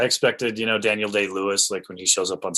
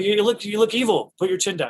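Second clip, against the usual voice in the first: Fincher imitated; 10 semitones higher than usual. Fincher voiced.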